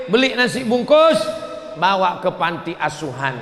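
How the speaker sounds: rally the congregation to act; preaching shout. Real, not acted. Preacher urges the audience.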